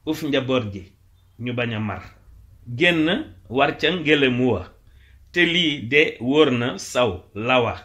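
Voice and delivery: measured verse with drawn-out line endings; poem recitation. Acted. Teacher reciting a Wolof praise poem, declaimed. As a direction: declaim each short line, pausing after it.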